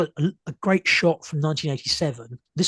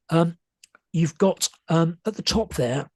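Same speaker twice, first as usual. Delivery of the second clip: strained, tiring hoarse voice; 3 semitones higher than usual. Real, not acted. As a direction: voice going hoarse. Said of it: "you're losing my voice a bit".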